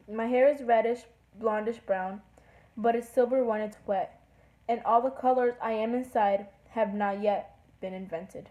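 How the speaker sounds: measured reading of a poem; lightly performed verse; poem recital. Acted. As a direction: read it aloud, pausing between phrases. Reads a poem aloud.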